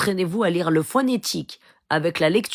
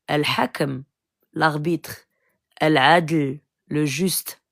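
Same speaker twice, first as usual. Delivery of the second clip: measured, deliberate listing of names; solemn recitation; slower than usual. Acted. Preacher reciting the names of God to believers, solemn and measured. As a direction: intone each name, then its meaning, with weight.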